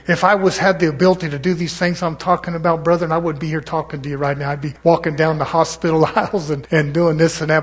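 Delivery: rising into full preacher force; preaching. Acted.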